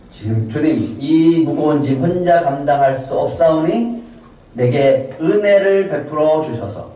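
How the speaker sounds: drawn-out plea to the Lord; mildly acted supplication; praying. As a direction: beg for grace under a heavy burden. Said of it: "모세가 그렇게 기도해요".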